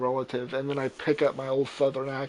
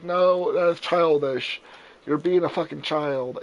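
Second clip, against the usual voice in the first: mildly exasperated telling-off, louder; retold scolding; 3 semitones higher, 5 dB louder than usual. Retelling telling Nigel off, exasperated scolding. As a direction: scold him for being childish.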